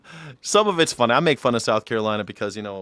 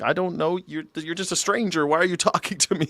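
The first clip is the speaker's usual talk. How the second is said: wary stranger; 6 semitones higher than usual. Retold or imitated. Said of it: "You're like".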